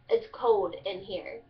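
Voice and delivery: slow Kentucky "cold" said as "code"; Kentucky dialect. Shown as a demonstration. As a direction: drop the L in "cold", unhurried Kentucky style. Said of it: "you take out the L".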